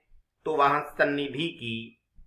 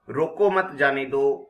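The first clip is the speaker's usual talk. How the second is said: "रोको मत, जाने दो" run together with no break; no comma pause; 4 dB louder, slower than usual. Shown as a demonstration. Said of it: "अल्प विराम का प्रयोग नहीं किया".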